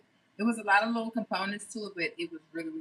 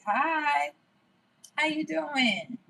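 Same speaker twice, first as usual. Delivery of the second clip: higher, slow cheery hello; high sweet greeting; 7 semitones higher, much slower than usual. Acted. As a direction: coo a hello to the viewers. Greeting viewers in put-on voice.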